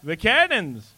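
declaimed stage line with swooping pitch; theatrical, slow, sing-out delivery; excited rehearsing actor. Acted. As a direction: rehearse your one big line, drawn out and grand. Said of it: "he's running around going".

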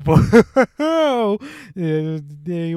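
high, loud dramatic voiceover whoa; mock voiceover whoa. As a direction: ham up a cheesy TV narrator. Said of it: "that voiceover guy".

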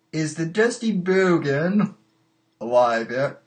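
a slight, weird British-Lithuanian lilt; accidental hint of British-Lithuanian accent; muddled British-Lithuanian accent. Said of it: "that was a weird British, uh, Lithuanian accent".

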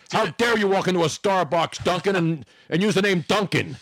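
mildly indignant, pitched a little up; mock barista anger. Baristas turning on the customer, mild mock outrage. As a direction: play affronted at the customer. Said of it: "look at you with anger".

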